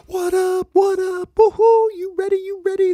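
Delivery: very high, loud little bird cheer; excited greeting. Acted. Baby bird high-fiving friends at camp, excited. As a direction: whoop it at your friends.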